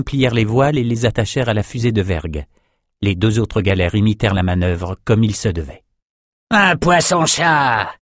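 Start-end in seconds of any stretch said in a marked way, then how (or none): 6.5-7.9 high, slow excited call; high, slow raider shout. A narrator's reading. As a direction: sing it out across the deck. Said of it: "lança Bosco".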